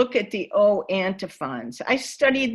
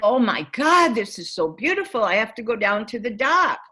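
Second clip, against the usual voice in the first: awestruck; faster than usual. Retold or imitated. I was so taken aback.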